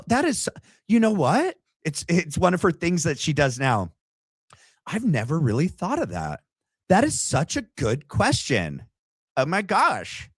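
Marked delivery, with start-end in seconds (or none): 4.9-10.3 mock gushing. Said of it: "watch what she says".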